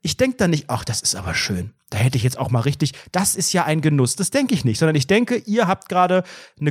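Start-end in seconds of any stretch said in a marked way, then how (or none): 0.7-4.1 mock admiration. Imagined picnic admiration.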